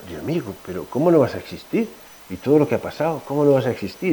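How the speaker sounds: a soft, hushed plea to God, retold; quiet prayer. Preacher recalls praying alone in a corner, hushed. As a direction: pray it under your breath as in the dream. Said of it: "en voz bajita".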